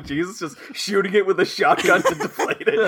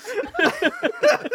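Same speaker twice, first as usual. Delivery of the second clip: Sloth voice. Retold or imitated. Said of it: "Sloth from the Goonies".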